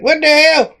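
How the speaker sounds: high-pitched startled exclamation; retold startled disbelief. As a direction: blurt it out in mock astonishment. Retold startled reaction to a creature.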